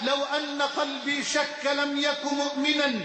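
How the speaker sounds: steady devotional recitation of verse; recited prayer poem. Acted. Preacher reciting a poem of repentance to the congregation, devotional. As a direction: recite the supplication as a humble plea.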